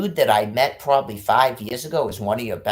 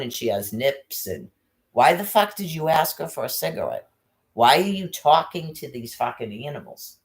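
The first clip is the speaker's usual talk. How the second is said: contemptuous; 3 semitones higher than usual. Retold or imitated. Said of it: "I would talk right that in front of her".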